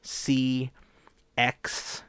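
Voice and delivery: slurred S sounds from retainer; wearing a retainer. Real, not acted. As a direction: struggle with S around a retainer. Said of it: "I can't pronounce certain letters".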